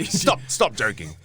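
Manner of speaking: a hint of a doubting mum; mum's mock disbelief. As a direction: play his mum, not buying it. Mum disbelieving his news.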